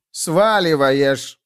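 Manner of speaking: drawn-out yelled accusation; mock shout. A narrator's reading. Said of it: "заорал двумя голосами пионер".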